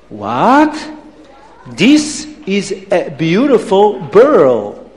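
put-on slow accented wonder; marvel, swooping on each word; mildly stunned, drawn-out admiration; amazed Abdallah. Abdallah amazed, eyes popping out.

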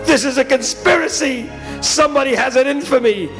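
high-pitched paranoid outrage; hammed-up indignation; indignant protest. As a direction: cry foul at a plot. Boy protests his bad luck.

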